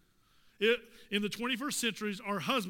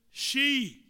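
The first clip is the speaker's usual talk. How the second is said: "she" higher and much louder; stress on she; 4 semitones higher, 7 dB louder than usual. Real, not acted. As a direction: throw out "she" as the loud punchline. Emphatic contrast of he and she.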